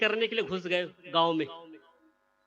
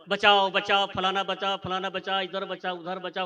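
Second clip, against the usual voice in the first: calling out for help without real fear; old woman calling for help, mildly retold; mock cry for help. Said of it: "कहते चिल्लाने लगी".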